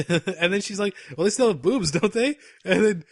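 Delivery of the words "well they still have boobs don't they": higher-pitched, mildly loud retort; imitating loud woman. Drunk coworker teasing him before all the women, mock loud. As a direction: play a drunk coworker's brash comeback, pitched up. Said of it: "She's super loud".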